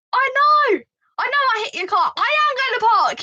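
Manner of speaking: tearful panic. Retold or imitated. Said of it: "tears were, like, flooding down my face".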